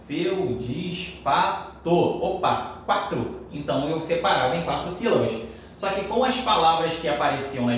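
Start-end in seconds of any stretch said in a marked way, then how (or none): 0.1-1.9 slow syllable-by-syllable count. Shown as a demonstration. Teacher recalls counting syllables on his fingers, slow syllable count. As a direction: say it in slow, separate beats. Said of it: "Eu falava e contava".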